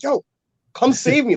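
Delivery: high-pitched mock plea for rescue; retold panic. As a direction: plead like you're stuck outside, playfully panicked. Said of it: "I was panicking".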